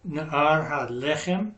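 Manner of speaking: "lechem" with the beat on its first syllable, slowly; teacherly slow "lechem", LE stressed; accent on first syllable. Shown as a demonstration. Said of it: "have the accent on the first syllable".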